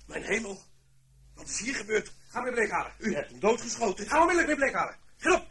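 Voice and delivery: loud, high alarmed orders; shocked shouting. Acted. To the servant after the shooting, loud shocked orders. Discovering a man shot dead.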